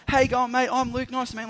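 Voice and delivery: loud, high, matey hello; hearty greeting. Retold or imitated. Luke grabs the bag and greets the teacher, high and hearty. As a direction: greet the newcomer like a keen helper.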